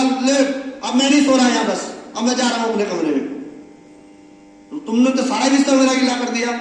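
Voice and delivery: the son snaps and walks out; angry son. Retold or imitated. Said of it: "वो गुस्से में जा रहा था".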